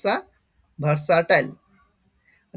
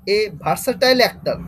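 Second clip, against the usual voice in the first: slow dictation; much slower than usual. Shown as a demonstration. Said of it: "slow reading of example".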